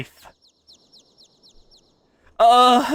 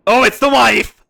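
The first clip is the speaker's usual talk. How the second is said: louder, exclaimed recognition; excited realisation; 3 semitones higher, 7 dB louder than usual. Real, not acted. Gamer recognising the wife on screen, exclaiming. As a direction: blurt it out as she appears.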